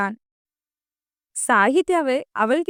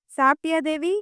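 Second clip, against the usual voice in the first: higher-pitched imitation of a fond boyfriend; mock doting; 5 semitones higher than usual. Girlfriend imitating her boyfriend's caring phone calls, mock doting. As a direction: coo it in mock affection. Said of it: "செல்லோன்னு கொஞ்சுவ".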